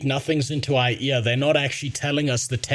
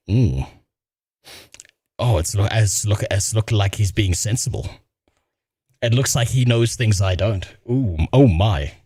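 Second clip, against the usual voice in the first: impressed ooh; 7 semitones lower, slower than usual. Real, not acted. Low impressed oohs at video.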